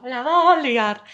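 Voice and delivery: slow, loud knowing warning; she's about to blow, say it slowly; worried thought. Retold or imitated. Friend foreseeing trouble, slow wary aside. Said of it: "y yo".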